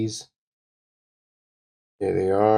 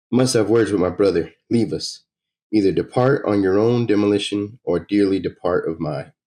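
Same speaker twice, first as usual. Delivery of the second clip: lightly voiced stern order, a bit louder; commanding woman; 3 dB louder than usual. Player voicing a woman warning thugs to leave, lightly stern. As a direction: order them out with cold authority.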